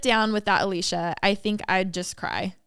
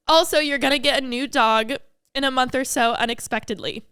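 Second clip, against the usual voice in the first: composed, still teary; 3 semitones higher than usual. Real, not acted. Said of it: "I was not expecting to cry".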